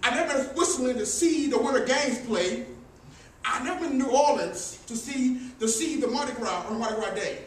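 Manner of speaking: rhythmic sermon delivery, rising; preaching cadence. Acted. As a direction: preach it like a poem. Poetic eulogy preaching.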